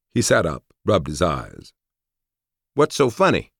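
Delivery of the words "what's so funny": sleepy. A narrator's reading. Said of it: "he asked sleepily".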